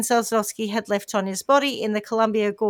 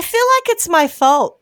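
tag-less quote; 6 semitones higher, 5 dB louder than usual. Acted. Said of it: "she said".

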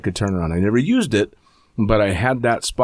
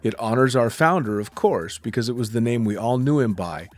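smooth, measured brand ad read over music; promo voiceover. Acted. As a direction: read it like a slick company film.

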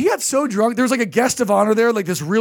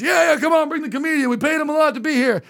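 higher-pitched mock drunk heckle; drunk emcee; 6 semitones higher, faster than usual. Drunk event boss interrupting the hired comedian, drunkenly pushy. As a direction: lightly imitate a drunk man cutting in. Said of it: "that's really drunk".

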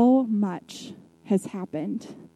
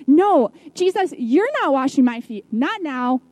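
high refusal with no on top; protesting; 4 semitones higher than usual. Retold or imitated. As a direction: burst out refusing, then settle. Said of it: "kind of situation".

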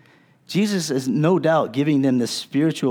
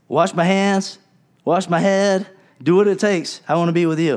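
eager plea; 4 semitones higher, 3 dB louder than usual. Retold or imitated. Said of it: "And he's like".

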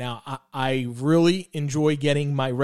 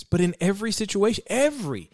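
every set apart and stressed; 3 semitones higher, faster than usual. Real, not acted. Preacher drives home a Bible verse, stress on every. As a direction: lean on every, then repeat it alone. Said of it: "I emphasize that word every".

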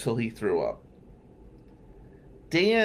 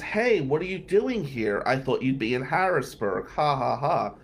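mocking; 2 semitones higher than usual. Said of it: "So she was mocking me".

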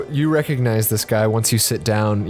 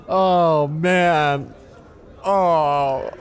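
suara tinggi kurcaci polos yang menangis; dwarf naif yang tersedu, nada tinggi; Sandwich Ralph, tearful; 5 semitones higher, much slower than usual. Acted. GM voices Ralph lamenting.

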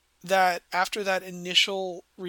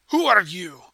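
loud challenge to an intruder; talking too loud; 11 dB louder than usual. Acted. Boarder demands a stranger's identity, too loud. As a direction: demand it much too loudly. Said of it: "he talks a little bit too loud".

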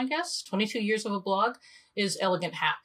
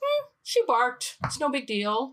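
calm shrug; 5 semitones higher than usual. Retold or imitated. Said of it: "Or I could say".

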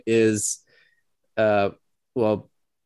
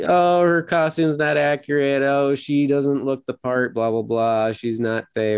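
mock nitpicking; 4 semitones higher than usual. Podcast host mocks online critics ragging on an actress, mock nitpicking. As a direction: imitate whiny online critics with mild scorn. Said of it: "some jerks ragging on".

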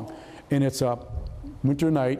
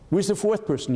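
sudden high, startled question; alarmed question; 6 semitones higher than usual. Retold or imitated. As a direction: blurt it out in alarm. Alarm at the fourth person.

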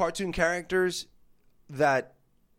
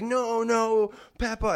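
higher, imitating a panicked child; crying little girl; 5 semitones higher, slower than usual. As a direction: play the scared kid running out. Crying girl quoted again.

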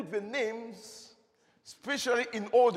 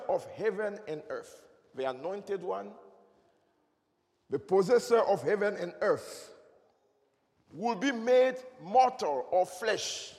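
over enunciating. Shown as a demonstration. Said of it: "Let me say it again".

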